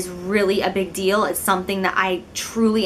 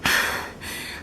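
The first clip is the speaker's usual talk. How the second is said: mock winded sigh; 6 dB quieter than usual. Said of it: "And I'd be like".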